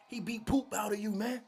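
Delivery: high, loud words through laughter; laughing gloat. Retold or imitated. Gramps gloats at the beaten man, laughing high and loud. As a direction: crack up while gloating.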